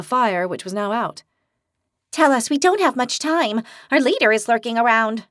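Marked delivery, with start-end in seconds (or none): 2.1-5.3 in warning. Acted. Daphne warning the group about their leader, urgent. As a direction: hurry them, the leader is near. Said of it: "Daphne said in warning".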